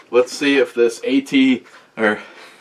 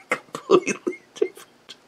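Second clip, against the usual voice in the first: laughing; 6 dB quieter than usual. Real, not acted. Laughing at friend's logic.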